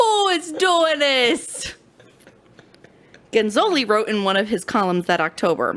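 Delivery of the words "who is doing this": put-on New York accent, very high, very slow, dragged. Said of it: "What is this accent? Are you from New York?".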